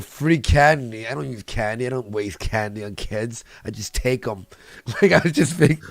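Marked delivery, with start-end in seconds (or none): 0.0-4.5 mock creepy reply. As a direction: shrug off "Free candy?" as beneath him. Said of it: "I'm like".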